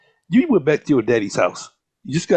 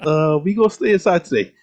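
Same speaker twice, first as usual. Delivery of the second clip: dogs refusing. Retold or imitated. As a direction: voice the lazy dogs.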